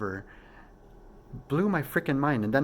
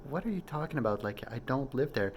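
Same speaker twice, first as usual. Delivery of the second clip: higher, baffled retelling of the objection; confused protest; 4 semitones higher, faster than usual. Retold or imitated. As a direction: push back, puzzled and a bit exasperated. Second, confused retort in dream.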